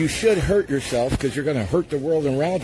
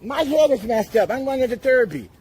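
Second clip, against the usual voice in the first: mocking voice; 7 semitones higher than usual. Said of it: "they always think".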